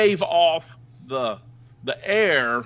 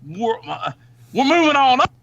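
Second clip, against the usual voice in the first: high, louder sing-song of glee; mock glee; 8 semitones higher, 4 dB louder than usual. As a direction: crow it like a secret windfall. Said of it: "this guy's probably going".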